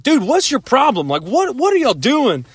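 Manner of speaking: a touch of annoyed confrontation; retold mad outburst. Ben confronting his gawking friends, mock annoyed. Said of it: "I got soaking mad".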